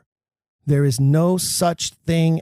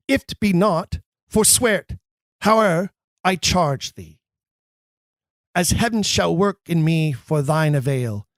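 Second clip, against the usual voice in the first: urgent earnest. Shown as a demonstration. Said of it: "in urgent earnest".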